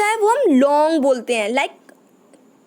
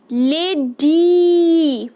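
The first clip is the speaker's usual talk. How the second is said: लेडी very slow and louder with a long final ee; slower, louder demo word; 4 dB louder, much slower than usual. Shown as a demonstration. Teacher stresses the ending for children, very slow and louder. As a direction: stretch लेडी right out and lean on the ee. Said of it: "कौन सी sound आ रही है आपके पीछे".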